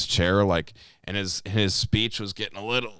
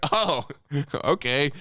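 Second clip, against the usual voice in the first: startled oh; 6 semitones higher than usual. Retold or imitated. Startled reaction retold.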